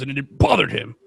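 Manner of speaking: ordinary talk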